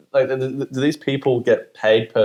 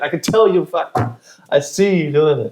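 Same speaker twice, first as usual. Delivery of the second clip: higher, accusing voice catching a scammer out; mock scolding; 4 semitones higher than usual. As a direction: play the guy who's caught him looking it up. Voicing the guy catching a scammer.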